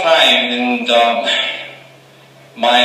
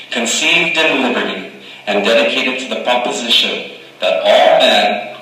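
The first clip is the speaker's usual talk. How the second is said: measured, solemn oration; formal speech recital. Acted. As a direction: deliver it like a statesman at a podium. Recites the Gettysburg Address.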